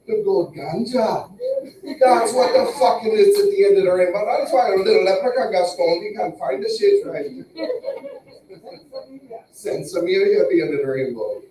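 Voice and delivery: high, excited mock Jamaican; Jamaican accent. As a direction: rant in a hammed-up Jamaican accent. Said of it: "Or the goddamn Jamaicans?".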